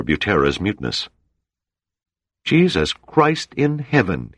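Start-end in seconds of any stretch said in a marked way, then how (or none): 2.4-4.3 high, slow hoarse cry; hoarse shout. Acted. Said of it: "he shouted hoarsely".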